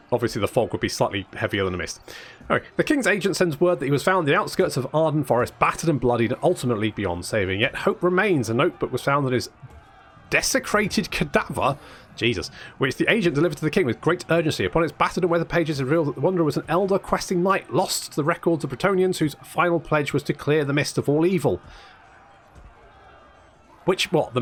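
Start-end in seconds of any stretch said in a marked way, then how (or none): 2.7-11.8 quick, lively quest-text reading; story narration. Acted. 12.8-21.6 quick, lively quest-text reading; story narration. Acted.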